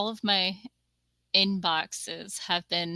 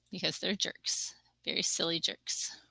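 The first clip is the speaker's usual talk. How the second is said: whisper; 3 semitones lower, 9 dB quieter than usual. Real, not acted. Whispered jab at spammers.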